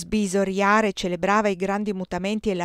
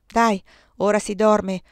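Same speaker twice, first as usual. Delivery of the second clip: mugolio; 2 semitones higher, 5 dB louder, slower than usual. Acted. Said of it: "mugolò Robert".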